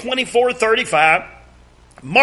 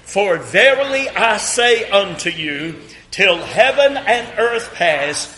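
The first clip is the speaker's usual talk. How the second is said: scripture reading. Shown as a demonstration. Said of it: "read this one with me".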